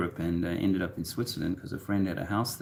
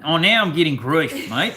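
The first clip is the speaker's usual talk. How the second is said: laughing; 8 semitones higher, 8 dB louder than usual. Real, not acted. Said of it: "It's good to see me laugh".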